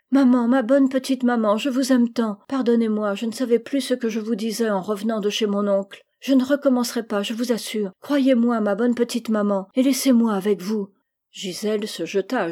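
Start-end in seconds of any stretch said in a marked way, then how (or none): 0.1-10.9 pleading. Acted. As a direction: beg mother to forgive her. Girl begging her mother's forgiveness.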